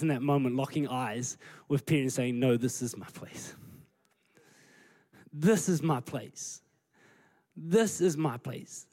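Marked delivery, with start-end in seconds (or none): 2.4-3.5 low, near-whispered insistence; hushed firm reply. Acted. Jesus locking eyes with Peter, quietly firm. 5.3-8.9 each word given weight, slowly; slow right down and insist; slow, deliberate insistence. Acted. Jesus answering Peter's objection, slow and deliberate.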